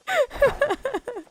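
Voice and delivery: a last high trailing laugh. Real, not acted. Streamer still laughing after apologizing, high laugh. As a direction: let the laugh tail off high.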